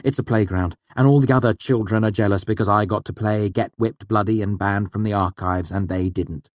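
a mild sarcastic snap; snapped. Acted. The student snaps sarcastically back at Elodin. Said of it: "I snapped".

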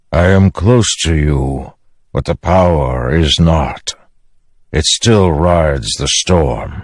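lightly voiced storm spirit, stately and unhurried; Stormfather. Voices the Stormfather, solemn explanation.

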